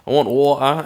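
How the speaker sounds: imitated British accent on a short quote; lightly mocked British pronunciation, swallowing the T in water. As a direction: put on a quick British accent. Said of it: "someone doing a British accent".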